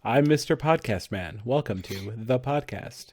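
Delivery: low, smooth radio host tones; sexy podcast man voice. Pretend. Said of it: "Talking like a sexy man".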